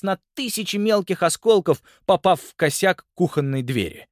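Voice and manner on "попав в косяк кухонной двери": ordinary delivery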